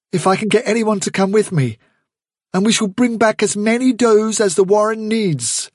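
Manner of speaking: put-on young leader addressing the warren; Hazel's calm resolve. Hazel voiced.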